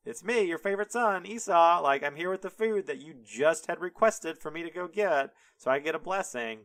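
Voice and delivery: high, insistent, puzzled pleading; confused Esau. Retold or imitated. Favorite son to his father, confused and insistent. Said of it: "Esau doesn't understand what's happening".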